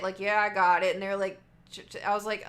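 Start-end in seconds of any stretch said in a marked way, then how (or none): 0.2-0.9 called back loud; loud answer. Retold or imitated. Answering a coworker across the restaurant, called loud. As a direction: shout back a quick yes.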